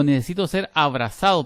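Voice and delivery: cita de meme, bastante más fuerte; lánzalo como frase de meme, a todo volumen; cita de meme en voz alta. Retold or imitated. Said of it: "¿Cómo es que dice aquel meme?". (frase de meme dicha en voz alta)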